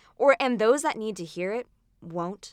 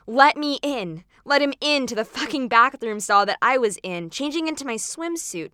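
loud, higher, pushing demand; 5 semitones higher, 6 dB louder than usual. Acted. Boy shouting at the girl through the stall door, loud and demanding. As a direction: bang on the door with your voice.

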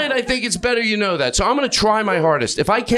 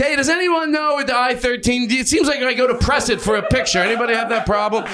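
higher, earnest question to the crowd; mock confused phone user; 6 semitones higher than usual. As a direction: play a lost gadget owner asking for help. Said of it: "trying to act like it's my act".

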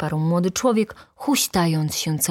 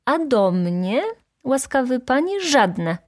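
calling out; 8 semitones higher than usual. A narrator's reading. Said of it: "wołał młody człowiek".

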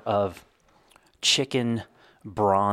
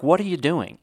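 exasperated teacher; 7 semitones higher than usual. Retold or imitated. Teacher asking the boy again.

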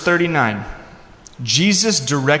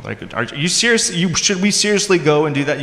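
snarky disciples; 4 semitones higher than usual. Acted. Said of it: "You can hear the snark in their voice".

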